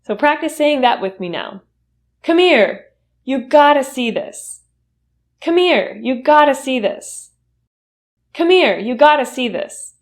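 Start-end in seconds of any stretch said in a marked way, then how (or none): 2.2-9.9 excited call. Shown as a demonstration. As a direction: call someone over to share good news. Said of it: "really excited about something and happy".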